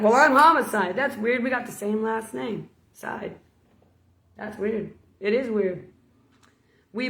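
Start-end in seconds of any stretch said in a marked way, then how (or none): 0.0-2.7 proud retort. Retold or imitated. Homicide answers back.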